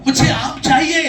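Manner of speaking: high, loud call with a laugh. Shown as a demonstration. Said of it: "मैं जरा जोर से बोलूंगा".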